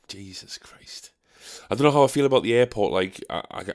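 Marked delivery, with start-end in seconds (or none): 0.1-1.1 whispered under the breath, softer and slow. Real, not acted.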